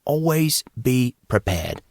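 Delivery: slow mock British accent; slow, grand British accent. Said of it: "said Casey in his best British accent".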